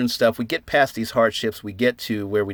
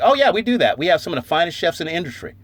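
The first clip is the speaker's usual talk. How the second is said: proud boast; 6 semitones higher, faster than usual. Retold or imitated. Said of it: "It's like".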